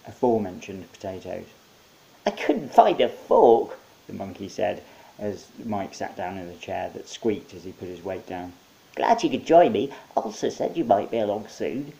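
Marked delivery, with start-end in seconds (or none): 2.3-3.8 high, cheerful monkey; chirpy host monkey. Acted. Monkey welcoming Mike with potato hands. 9.0-11.9 high, cheerful monkey; chirpy host monkey. Acted. Monkey welcoming Mike with potato hands.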